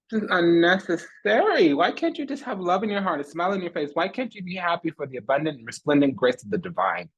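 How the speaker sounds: high-pitched, theatrical lament; exasperated pleading. Acted. Mock-pleading lament to a hateful enemy.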